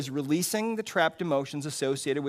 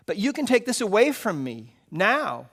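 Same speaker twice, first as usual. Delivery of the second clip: crying out; 5 semitones higher, 4 dB louder than usual. Acted. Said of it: "I cried".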